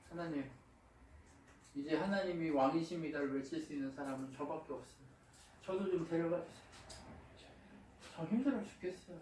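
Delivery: soft, understated retold weeping prayer; mock tearful plea. Preacher as Elijah begging God under the broom tree, mildly tearful. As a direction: plead quietly, imitating a worn-out prophet. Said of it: "펑펑 울면서 얘기하는 거예요".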